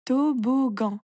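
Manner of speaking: "Toboggan" as to, bo, ggan; three clear syllables in "Toboggan". A narrator's reading. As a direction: stretch "Toboggan" into three beats. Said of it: "tu coupes le mot en petites parties".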